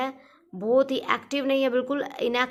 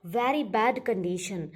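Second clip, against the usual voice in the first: dictating slowly; much slower than usual. Shown as a demonstration. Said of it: "meaning given slowly".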